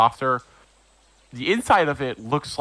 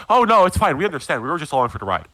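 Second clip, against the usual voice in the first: eager quick reassurance; 3 semitones higher, much faster than usual. Acted. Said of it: "raise up their hands and go".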